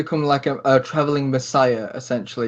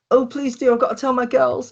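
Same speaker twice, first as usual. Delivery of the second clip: put-on very high, bubbly girlish chatter; excited girlfriend; 10 semitones higher than usual. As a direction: gush on in a squeaky girlfriend voice. GM voices Josie again.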